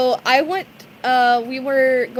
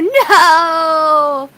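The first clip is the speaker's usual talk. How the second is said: loud, laughing cry; loud laughing refusal; 4 semitones higher, 9 dB louder than usual. Real, not acted. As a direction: shout no through laughter. Refusing winter.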